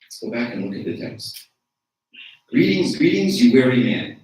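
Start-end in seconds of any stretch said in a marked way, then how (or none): 2.5-4.2 warm greeting. Shown as a demonstration. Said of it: "Anyone feel that that's life-changing?".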